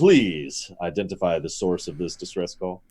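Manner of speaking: suppressed smile. Real, not acted. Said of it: "you can hear the smile".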